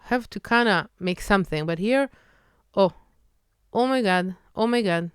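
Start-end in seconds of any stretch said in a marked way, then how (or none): 2.8-5.1 "Oh my God." with barely open mouth, flat Hebrew o. Shown as a demonstration. Teacher contrasting Hebrew oh with English. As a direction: keep the mouth almost closed on oh. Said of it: "Really don't have to open the mouth".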